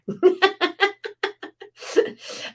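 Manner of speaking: airy giggle up high; real amused giggle; high breathy laugh. Real, not acted. Laughs at her own barking.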